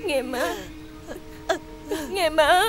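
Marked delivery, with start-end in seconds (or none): 2.1-2.6 louder, more urgent plea. Acted. Daughter begging her mother, louder plea. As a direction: press the plea harder.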